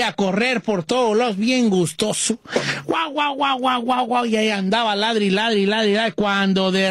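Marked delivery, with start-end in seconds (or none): 2.8-4.1 imitated barking. Narrator imitates the dog barking.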